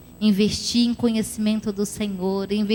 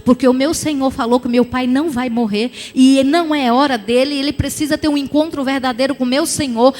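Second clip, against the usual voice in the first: commanding rebuke; 4 dB louder than usual. Retold or imitated. Rebuking the spirit of death.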